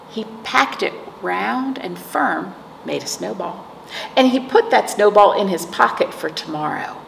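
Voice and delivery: put-on reading a picture book to children; gentle storytime narration; story reading. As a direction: read it like storytime for little kids. Librarian reads picture book aloud.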